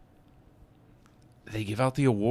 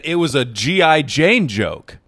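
raised, louder mock protest; incredulous retold protest; 5 semitones higher, 7 dB louder, slower than usual. Retelling the comedian's reply after the slap, incredulous protest. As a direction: protest as if you can't believe it. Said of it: "And then he said".

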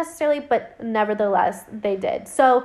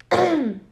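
throat clear; 6 semitones higher than usual. Real, not acted. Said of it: "I am losing my voice".

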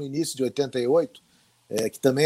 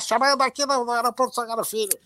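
higher, crackly radio-report voice; walkie-talkie radio sound; 5 semitones higher than usual. Retold or imitated. Reporter mimicking his airport field broadcast over radio, higher tinny voice. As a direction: sound like you're coming through an old field radio. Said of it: "Um som era".

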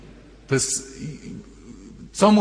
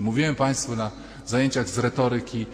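normal talking voice

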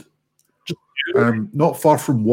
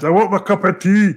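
raised, louder visitor's demand; mock demand; 5 semitones higher, 4 dB louder than usual. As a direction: call out higher, playfully insistent. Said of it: "when I come round".

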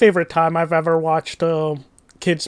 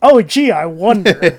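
loud, pointed mock wondering; sarcastic; 5 dB louder than usual. Real, not acted. To the friend who dragged him to the film, sarcastic. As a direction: answer the feigned innocence with heavy sarcasm. Sarcastic reply to feigned innocence.

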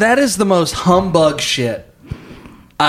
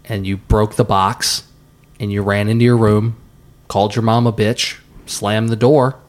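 solemn storyteller; 6 semitones lower than usual. Acted. Slow dramatic retelling of story.

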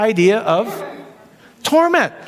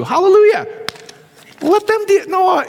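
a real preacher's hallelujah; joyful hallelujah; 11 semitones higher than usual. Real, not acted. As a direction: shout it out in triumph. Preacher's climax of the point.

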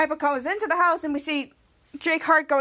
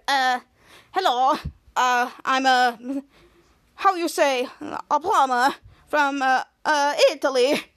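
lightly put-on Italian accent, slow and halting; hesitant fake Italian, feeling for the words; a hint of mock Italian plumber; slower than usual. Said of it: "dressing up as an Italian plumber".

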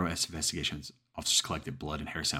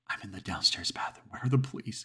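rising, higher panicked question; frightened plea; 5 semitones higher than usual. Acted. Hiding caller asking the dispatcher for police, panicked. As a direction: beg to know where help is.

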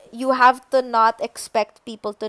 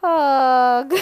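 audio hug; 4 semitones higher, 6 dB louder than usual. Pretend. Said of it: "So here's an audio hug".

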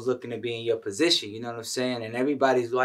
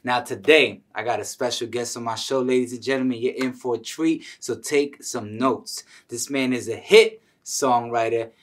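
punchy, louder show-opener delivery; podcast host intro; 6 dB louder than usual. Real, not acted. Host welcomes listeners and presents special guest, announcer-style intro. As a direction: build up to the guest's name, drawing it out.

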